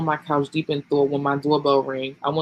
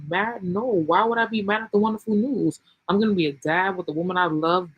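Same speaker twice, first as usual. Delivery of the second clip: higher, elated, can't believe she thought that; delighted disbelief; 5 semitones higher than usual. Acted. Sean answering her worry, higher and delighted. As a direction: brighten up with joy at the news. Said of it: "He laughed".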